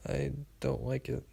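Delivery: very soft, withdrawn mumble; mumbled. A narrator's reading. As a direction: mumble it, barely wanting to be heard. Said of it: "I mumbled".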